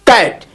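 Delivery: कैट in one single beat; one syllable. Shown as a demonstration. Teacher contrasting it with table, said as one syllable. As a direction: say कैट in one unbroken push. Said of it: "एक ही बार में हमने बोल दिया".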